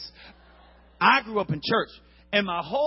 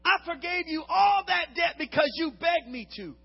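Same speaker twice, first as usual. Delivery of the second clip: loud, high, slow furious rebuke; the master scolds his wicked servant; angry king; 7 semitones higher, 5 dB louder than usual. Acted. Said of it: "their master was angry".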